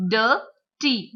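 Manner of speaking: DIRTY split as DIR, pause, TY; broken into syllables. Shown as a demonstration. Teacher breaking the word into sounds, syllable by syllable. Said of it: "so this word dirty".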